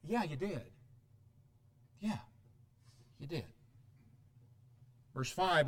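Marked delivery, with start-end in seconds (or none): 0.0-3.4 soft, deadpan accusation; dry comeback. Real, not acted. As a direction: drop to a quiet, knowing reply. Dry comeback after the mock outrage.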